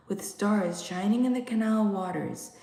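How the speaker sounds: ordinary delivery, nothing marked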